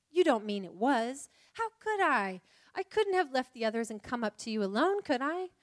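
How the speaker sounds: flustered Lucy, protesting. Acted.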